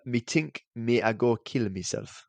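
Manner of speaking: slow, light patois reading; a hint of put-on patois; Jamaican patois. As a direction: drag it out in mock patois. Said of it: "Not as good".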